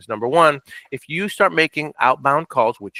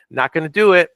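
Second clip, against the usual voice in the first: firm refusal; 4 semitones higher, 5 dB louder than usual. Real, not acted. Firm refusal, first emphatic take.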